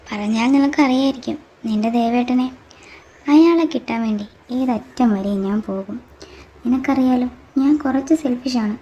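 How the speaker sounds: loud, menacing threat. Acted. A jealous girl threatening to kill her rival's Devettan, loud and menacing.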